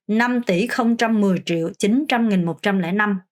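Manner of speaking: whole number in one smoother run; fluent teacher's reading. Shown as a demonstration. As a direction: pick up the pace for one full pass. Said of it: "좀 더 빨리 읽을 수 있도록".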